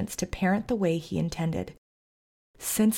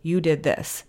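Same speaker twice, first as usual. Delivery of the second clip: mock grudging apology; 2 semitones lower, 4 dB louder, slower than usual. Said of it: "it's kinda like saying".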